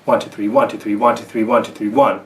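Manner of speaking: steady running count, each "one" leaned on; counting in threes. Shown as a demonstration. Teacher counting triplets to show accents, "one" stressed each time. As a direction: count "one, two, three" without breaks, landing firmly on "one". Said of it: "what I'm really focusing on is the accents".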